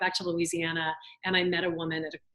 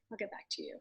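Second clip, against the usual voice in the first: "I'll get back to you" said much softer, trailing away; a fading, much softer echo; softer repeat; 2 semitones higher, 13 dB quieter, faster than usual. Retold or imitated. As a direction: repeat it almost under the breath. Hesitant reply quoted twice.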